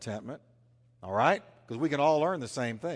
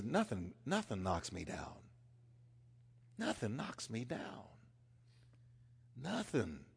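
hushed conviction; 2 semitones lower, 11 dB quieter than usual. Acted. Paul quoted with hushed conviction.

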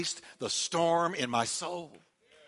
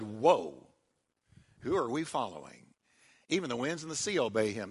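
hushed awe; 7 semitones lower, 6 dB quieter than usual. Acted. Awed disciples.

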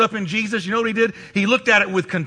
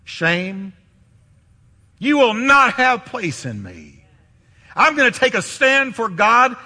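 defiant. Retold or imitated. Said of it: "I want you to say".

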